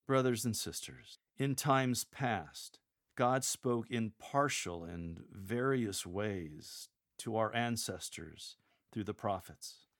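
slow, unhurried chat; informal conversational. Shown as a demonstration. Lector chatting to the people in the pews, conversational. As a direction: read it slowly like kitchen-table talk. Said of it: "just having a chat".

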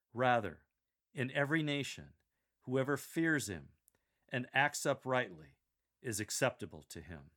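"Rather" punched, then a pause; just-the-facts reading, pausing after "Rather", "nation" and "uprightly"; emphatic key words. Shown as a demonstration. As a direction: stress "every", "fears", "acts uprightly" and "acceptable". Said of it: "Emphasize rather, every, fears, acts uprightly, and acceptable".

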